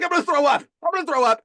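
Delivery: high, loud retold panic; urgent warning. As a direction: blurt it as if about to be sick. Retelling man's urgent warning of vomiting.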